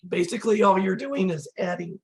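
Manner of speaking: hoarse, voice giving out; strained, fading voice; losing voice. Real, not acted. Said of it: "losing my voice here".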